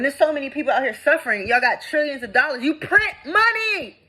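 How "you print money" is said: high, drawn-out cry of outrage; exasperated high wail; outraged cry. Real, not acted. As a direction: cry it out high, stretching the words. Outraged rant about government money.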